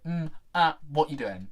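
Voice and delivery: failed American accent that sounds English; hammed-up, unconvincing American accent; bad American accent. Shown as a demonstration. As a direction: attempt an American accent and miss. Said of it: "I'll be doing my American accent".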